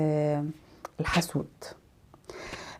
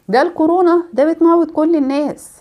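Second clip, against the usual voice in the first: alarmed doom-monger; 7 semitones higher, 4 dB louder than usual. Retold or imitated. Gloomy person spreading doom.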